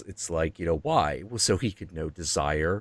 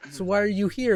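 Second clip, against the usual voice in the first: devil asking; 13 semitones higher than usual. Retold or imitated. Devil asks Jung.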